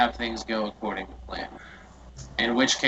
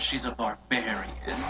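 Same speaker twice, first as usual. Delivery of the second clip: whisper; 3 semitones lower, 6 dB quieter than usual. Real, not acted. Whispered aside in play.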